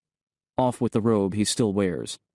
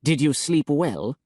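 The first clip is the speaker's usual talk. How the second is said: without deference; 6 semitones higher, slower than usual. Acted. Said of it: "none of its usual tone of feigned deference".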